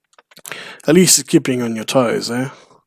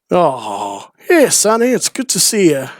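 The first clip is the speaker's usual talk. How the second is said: greeting voice; 4 semitones higher, slower than usual. Retold or imitated. Game character greeting.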